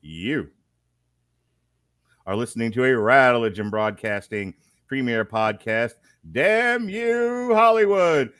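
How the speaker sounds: booming ringmaster announcement, high and loud. Acted. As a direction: call it out like a circus ringmaster. Announces podcast and host.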